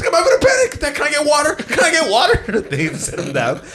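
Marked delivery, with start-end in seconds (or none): 0.1-2.6 high, frantic mock yell; strained, panicky plea pitched way up; imitated panicking old man. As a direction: act out a traveller melting down. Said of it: "there's an old man yelling".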